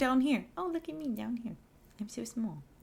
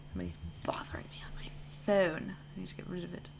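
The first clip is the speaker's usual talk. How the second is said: whispering; 7 dB quieter, faster than usual. Real, not acted. Aside while stream continues.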